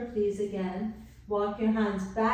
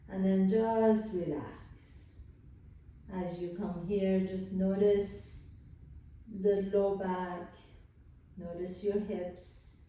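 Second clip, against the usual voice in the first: guided relaxation. Real, not acted. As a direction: ease them into rest, unhurried.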